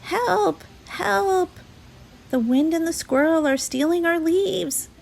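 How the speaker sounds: high frantic calling; frantic cry. A narrator's reading. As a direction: panic as the leaves are stolen. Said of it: "cried a frantic Fletcher".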